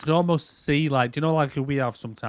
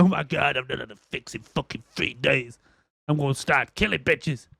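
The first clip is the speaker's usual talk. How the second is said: junkie voice. Retold or imitated. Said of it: "Just like".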